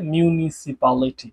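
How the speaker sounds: মিউনিসিপ্যালিটি said slowly and carefully; slow demo word. Shown as a demonstration. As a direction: drag out মিউনিসিপ্যালিটি as a model word. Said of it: "বাচ্চারা একটু struggle করে".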